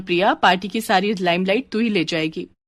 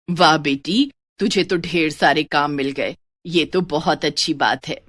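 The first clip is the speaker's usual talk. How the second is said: a hint of a pleased, then worried father, lower; father's voice, a touch lower, praising then doubting; lightly voiced father; 3 semitones lower than usual.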